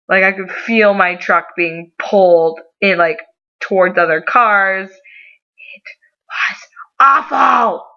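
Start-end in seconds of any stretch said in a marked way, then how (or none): 4.9-7.8 high, drawn-out theatrical wail; melodramatic emphasis. Real, not acted. Storyteller recalling the terrible drive, melodramatic. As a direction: stretch it out slowly, hamming up the horror. Hammed-up verdict on scary drive.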